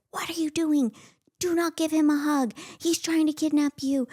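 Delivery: put-on high, urgent scolding kid; scolding big sister. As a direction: scold like a bossy seven-year-old. She scolds her sister at seven.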